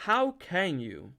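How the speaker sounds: slow, high, shocked question; hurt disbelief, drawn out; dismayed and pleading; amazed distress. A narrator's reading. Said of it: "in a voice of amazed distress".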